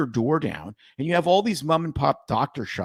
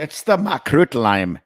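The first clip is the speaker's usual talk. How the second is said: slow, louder put-on voice; hammed-up announcer; 6 dB louder than usual. Host playfully announcing the lime drink, hammed-up slow voice. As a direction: ham up the name like a pitch, louder and drawn out.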